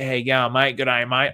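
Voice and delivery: broad mock Australian greeting; hammed-up Australian mateyness; mocking Aussie. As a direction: exaggerate the Australian accent, taking the mickey. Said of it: "in a mocking kind of a way to another Australian".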